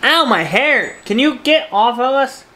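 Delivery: high pained ow; sudden yelp at the dog; startled yelp. Real, not acted. Dog climbing on her.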